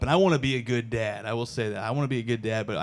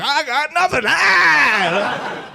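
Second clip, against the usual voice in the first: much higher, loud, cheerful cluelessness; clueless voter; 13 semitones higher, 5 dB louder, much slower than usual. Retold or imitated. Undecided voter admitting no idea, high mock yelp. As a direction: throw up your hands and yelp. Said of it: "Just like".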